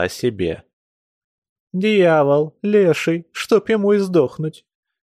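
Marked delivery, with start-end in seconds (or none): 1.7-4.7 cursing. A narrator's reading. Woman curses in pain.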